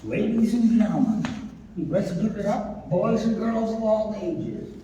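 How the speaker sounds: announcer. Acted. Emcee introduces the puppet act.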